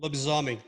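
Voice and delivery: Lobisomem in Portuguese, stress on the middle syllable "zo"; Portuguese pronunciation. Shown as a demonstration. A Brazilian player shows how a Portuguese word is said, native pronunciation. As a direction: Lobisomem said the Brazilian way, falling at the end. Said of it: "what's lo-, lobisomem?".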